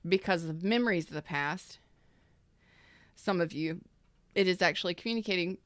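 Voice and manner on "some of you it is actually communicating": talking through hiccups; interrupted by a hiccup. Real, not acted. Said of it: "I have the hiccups".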